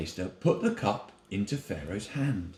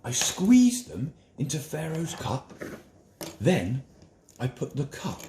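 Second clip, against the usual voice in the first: a lightly raised, eager voice for the wine taster; a storyteller's wine taster, a bit higher than the narration; wine taster telling his dream; 4 semitones higher than usual. Acted.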